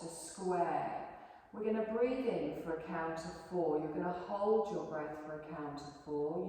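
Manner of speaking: calm, unhurried yoga relaxation voice; guided meditation. Acted. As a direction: guide the class gently into rest. Yoga teacher leads relaxation.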